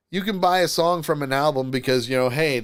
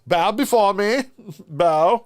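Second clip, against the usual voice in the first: dark lord; 6 semitones higher, 5 dB louder than usual. Pretend. Demands bowing after being called sire.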